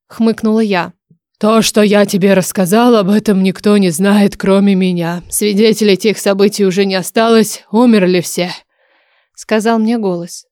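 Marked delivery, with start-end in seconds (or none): 1.4-8.5 firm, weighty oracle voice; grave dragon oracle. Acted. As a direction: tell a secret as the last living witness.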